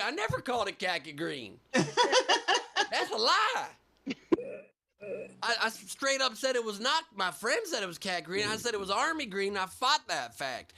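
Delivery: indignant Southern denial; gaslighting with a Southern twang; Southern accent. Pretend. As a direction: protest it in a put-on Southern accent. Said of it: "the accent is perfect with gaslighting".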